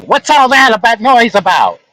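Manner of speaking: a hint of a puzzled old lady; mildly imitated old woman. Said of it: "old lady looking up at me, saying".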